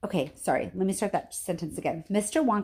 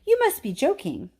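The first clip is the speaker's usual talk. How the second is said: disbelieving; 9 semitones higher, 3 dB louder than usual. A narrator's reading. Stunned grandpa disbelieving.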